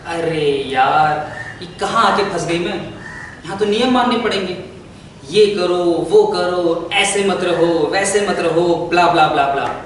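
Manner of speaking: mildly fed up, reeling off the rules; exasperated regret. Acted. Royal bride realising she is stuck with rules, exasperated. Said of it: "बाद में लगा".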